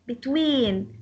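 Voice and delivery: "Between" stressed on the second syllable; stress on WEEN. Shown as a demonstration. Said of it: "The stress will go on".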